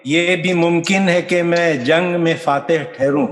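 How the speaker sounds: measured ghazal recital, phrase by phrase; poetry recitation. Acted. Poet presenting a ghazal to an appreciative audience, recited. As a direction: recite with deliberate cadence.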